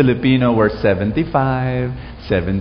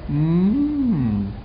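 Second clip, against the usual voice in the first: soft knowing hum; 6 dB quieter than usual. Retold or imitated. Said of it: "Smiling at me".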